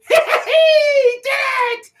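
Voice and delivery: high squealing goblin cheer. Acted. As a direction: shriek it like a goblin crowd.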